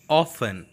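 "often" as "off-en"; silent T. Shown as a demonstration. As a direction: leave the T out of "often". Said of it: "T must be silent". ("often" with no T sound)

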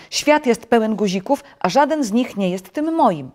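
high, loud tantrum; angry shouting. A narrator's reading. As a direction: storm in exasperation. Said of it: "Podskakiwał i krzyczał".

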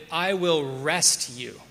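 slow, "I" leaned on first; stress on I. Shown as a demonstration. Preacher stressing the literal translation, slowly. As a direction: give "I" the weight and take the rest slowly. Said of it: "Literally, it could be translated".

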